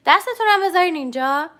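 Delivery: normal talking voice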